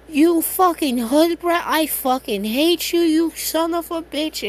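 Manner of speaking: slow, high, loud enraged screech; furious yelling. Retold or imitated. Ida screaming insults at Deku in a furious, high rage. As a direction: spit out the insult in a hammy rage.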